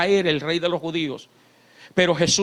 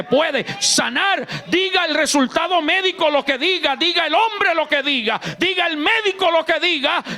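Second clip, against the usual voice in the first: preaching at full force; 7 semitones higher than usual. Acted. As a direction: build the declaration to a shout. Preaching climax, building up. (predicando a toda voz, cada vez más alto)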